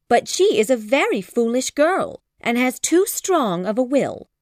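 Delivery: flustered mother apologising; anxious apology. A narrator's reading. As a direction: hurry to excuse her daughter. Mrs Bennet apologising anxiously.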